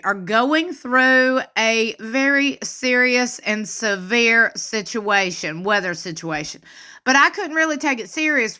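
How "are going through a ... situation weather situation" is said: slow, weighted word by word; mock gravity. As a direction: spell out the drama slowly, tongue in cheek. Mock-grave setup of storm story.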